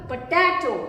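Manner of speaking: "पोटैटो" as one word, punching टै; stress on टै. Shown as a demonstration. Teacher confirms the stressed syllable, "पोटैटो" accented on टै. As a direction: hit the middle टै of "पोटैटो". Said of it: "ट में".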